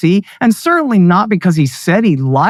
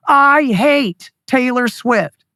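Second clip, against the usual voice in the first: all-caps shout; 4 semitones higher, much slower than usual. Retold or imitated. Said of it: "he tweets in all capital letters".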